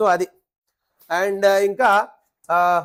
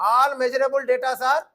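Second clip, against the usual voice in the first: slow dictation; 2 semitones higher, much slower than usual. Shown as a demonstration. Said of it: "teacher dictates slowly".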